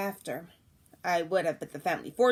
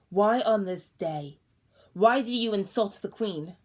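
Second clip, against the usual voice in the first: slow, louder royal challenge; indignant demand; 5 dB louder than usual. Acted. Queen to old woman, indignant and louder. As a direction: demand an answer, offended.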